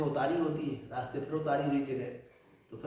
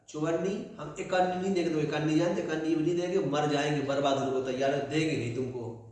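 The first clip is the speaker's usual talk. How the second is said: stubborn refusal; 2 semitones higher than usual. Acted. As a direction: dig in and refuse. Miser refuses again stubbornly. (कंजूस सेठ का ज़िद्दी इनकार)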